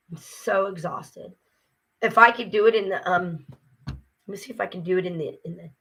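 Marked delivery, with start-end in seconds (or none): 0.1-1.3 soft, slow, worn-out own voice; real exhaustion. Real, not acted.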